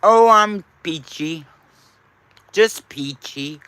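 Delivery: talking while chewing ice; words around a mouthful of ice. Real, not acted. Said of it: "Chewing ice cubes right now".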